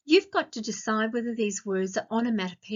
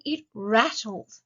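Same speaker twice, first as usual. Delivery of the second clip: slow emphasis; slower than usual. Shown as a demonstration. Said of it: "Have you ever heard that train rattling".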